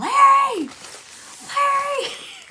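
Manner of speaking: shrill, very high, loud yell. Explaining what they hear in their head: imitating someone yelling 'Larry'. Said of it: "I'm just yelling Larry, like in in his voice".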